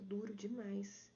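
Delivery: slow whispered dismay; whispered sympathy. Real, not acted. Coach reacting to a student's harsh self-talk, slow whisper. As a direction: breathe it out, slow and hushed.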